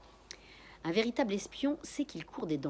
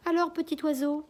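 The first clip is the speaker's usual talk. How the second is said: put-on high, louder quavering old man; 10 semitones higher, 8 dB louder than usual. A narrator's reading. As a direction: call out like a trembling old neighbor. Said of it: "dit une voix chevrotante".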